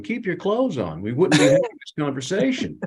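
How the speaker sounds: half-shouted mock outrage; mock scream. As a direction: play a colleague yelling, without full volume. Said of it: "he'd be screaming, going".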